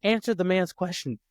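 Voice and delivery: high, slow mock prodding; wife gleefully pressing her husband to answer; gleeful wife teasing. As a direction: relish putting him on the spot. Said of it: "she goes".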